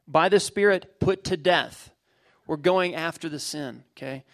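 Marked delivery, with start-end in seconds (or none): 0.1-1.9 emphatic scripture reading. Real, not acted. Reads scripture verse aloud.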